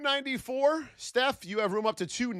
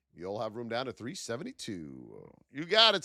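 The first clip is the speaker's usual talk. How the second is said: usual speaking voice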